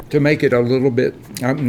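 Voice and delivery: talking through a mouthful; mouth full. Real, not acted. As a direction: speak round a bite of food. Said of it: "now I've got my mouth full".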